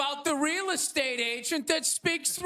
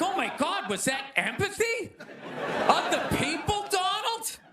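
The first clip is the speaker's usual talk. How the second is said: mock gushing; 6 semitones higher than usual. Mock gushing over Trump's kindness.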